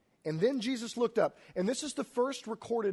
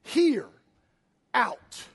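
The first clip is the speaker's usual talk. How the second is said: higher, louder clipped call; Jesus shouting into the tomb; loud command; 4 semitones higher, 6 dB louder than usual. Acted. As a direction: bark the two words as an order. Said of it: "and he cries out".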